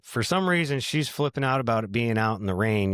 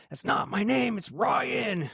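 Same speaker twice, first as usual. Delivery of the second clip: put-on indignant kid voice; 9 semitones higher, slower than usual. Cousin retorts angrily.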